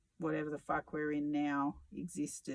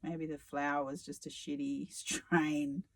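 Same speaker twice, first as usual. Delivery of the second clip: sarcastic. Real, not acted. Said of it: "I'm being sarcastic again".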